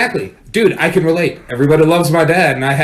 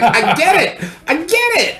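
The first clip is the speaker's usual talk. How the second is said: laughing mock realization; 14 semitones higher, slower than usual. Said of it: "I was like".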